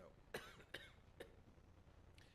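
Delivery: high strained coughing; choking cough. Real, not acted. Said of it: "I'm choking on my".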